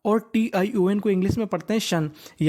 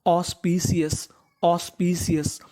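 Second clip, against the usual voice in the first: slow pronunciation demo; 2 semitones lower, slower than usual. Shown as a demonstration. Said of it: "तो meaning बनी ऑस".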